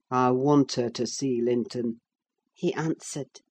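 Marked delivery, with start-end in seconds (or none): 0.1-2.0 low, sly persuasive man's voice; smooth older man. Acted. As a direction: coax them in, falsely kind. Heathcliff's flat reply.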